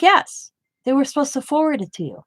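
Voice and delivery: a high, insistent yes, then a quick rush; emphatic yes. Retold or imitated. Telling her doctor the scan was sent, emphatic and quick. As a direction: push the yes up high and hurry the rest.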